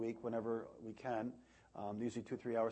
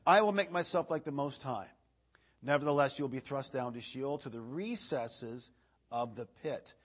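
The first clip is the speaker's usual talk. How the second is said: raised, declaiming pulpit reading voice; scripture reading; 3 dB louder than usual. Acted. Preacher reading Isaiah to the congregation, declaiming. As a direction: proclaim the verse to the room.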